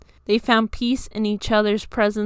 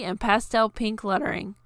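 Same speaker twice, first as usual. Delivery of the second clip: plain reading voice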